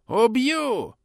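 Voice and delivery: roaring threat; furious yell. Acted. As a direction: scream the threat. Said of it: "закричал предводитель".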